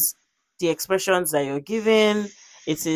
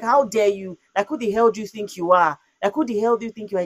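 mildly raised, higher voice, retelling an outburst; retold yelling; 4 semitones higher than usual. Woman retelling her comeback to the man who grabbed her, mock yelling. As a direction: re-enact telling someone off, pitched up. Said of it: "I was yelling".

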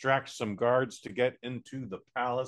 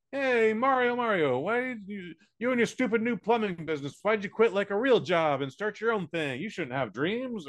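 nagging Italian family; 6 semitones higher than usual. Retold or imitated. Family at dinner scolding Mario's plumbing dream, high and nagging. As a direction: needle him like a pushy uncle. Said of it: "everyone's just like".

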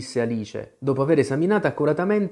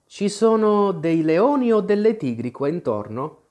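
timid; 6 semitones higher than usual. A narrator's reading. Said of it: "chiese timidamente".

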